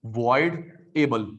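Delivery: वॉइडेबल stretched out very slowly, each syllable apart; slow drilled word. Shown as a demonstration. Teacher repeats वॉइडेबल slowly so students note it. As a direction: spell out वॉइडेबल slowly for dictation. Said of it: "teacher drills the term".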